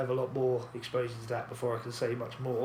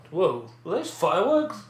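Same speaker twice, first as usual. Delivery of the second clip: startled slow whoa; surprised; 5 semitones higher, 5 dB louder than usual. Real, not acted. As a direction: react to a sudden bang. Startled by noise outside.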